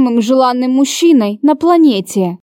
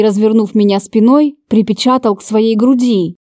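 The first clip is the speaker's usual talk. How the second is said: usual speaking voice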